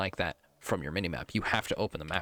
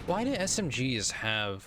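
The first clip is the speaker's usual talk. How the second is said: frustrated shout; 4 semitones higher, slower than usual. Real, not acted. Outburst during gunfight.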